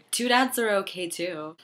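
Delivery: high singsong cheer; high playful voice. Pretend. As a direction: chirp it up high. Jokey singsong.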